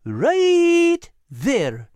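high, eager little animal voice; Al's high voice. Acted. Al urging Nigel toward the bank, high and eager. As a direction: voice Al bright and high. Al points.

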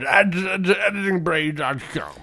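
hammed-up slurred celebrity mimicry; Bill Cosby. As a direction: mumble the web address in mock impression. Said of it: "You just went Bill Cosby on it".

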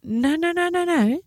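high, hurried protest; alarmed refusal. Retold or imitated. Owner refusing police who offer to shoot, high and alarmed. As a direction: wave off the offer in a panic.

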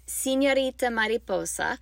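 careful attempt at a Spanish accent; best Spanish accent. Real, not acted. Podcaster naming a Spanish storybook for teachers, best Spanish accent. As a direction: give the title your best Spanish pronunciation. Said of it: "I am doing my best, best accent".

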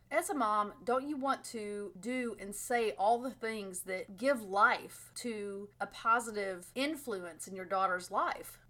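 numb tongue, slow words; tongue forward voice. Real, not acted. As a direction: speak slowly round a numb tongue. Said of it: "my tongue is numb".

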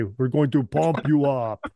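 slow, bad German accent. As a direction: pump you up, German bodybuilder style. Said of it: "My, my worst German, uh, accent there".

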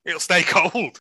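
breaks into a laugh mid-line; laughing through it. Real, not acted. Friend repeating his own joke, laughing mid-line. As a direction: repeat the joke and crack up halfway.

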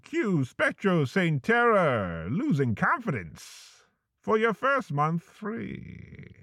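upbeat podcast ad read with a deadpan edge; spooky parody ad read; sponsor ad read. Acted. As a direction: sell the creepy app like a cheerful sponsor spot.

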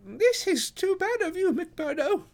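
very high-pitched, perplexed gentleman; helpless protest. A narrator's reading. Thaddeus reproaching the porter, high and helpless. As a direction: plead helplessly, pitched right up. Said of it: "in a perplexed and helpless manner".

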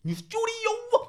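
high, loud, stretched-out whoop; excited cheer. Real, not acted. Co-host celebrating at the episode's end, excited cheer. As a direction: shout it out with a laugh, drawing it long. Cheering the new studio at sign-off.

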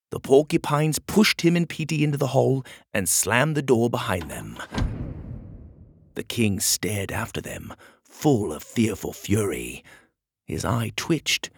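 dramatic storybook narrator; story narration. A narrator's reading. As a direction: tell it with measured suspense.

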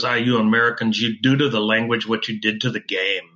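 a hint of a dry Scottish brogue; a Scottish caddy's wry put-down, lightly voiced Scottish accent. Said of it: "the caddy says".

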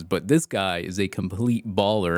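baller leaned on, said with weight; stress on baller. Shown as a demonstration. Host hyping a recruit to listeners, stress on baller. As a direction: punch the word baller. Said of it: "I emphasize the word baller".

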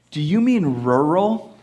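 "rural" drawn out in two clear syllables, ru-ral; corrective rural. Retold or imitated. Husband querying his wife's word, careful "rural". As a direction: slowly sound out both r's in "rural".

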